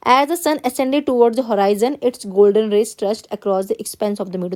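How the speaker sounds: slow, careful classroom read-aloud; teacher reading a text to the class. Acted. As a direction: read the passage word by word, x0.3 pace. Teacher reads passage aloud.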